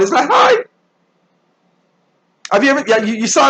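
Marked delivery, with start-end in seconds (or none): 0.3-0.6 squeaky, over-sweet mock greeting; simpering greeting. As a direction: imitate a fake smile in a very high hi. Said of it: "smile goes from way up here".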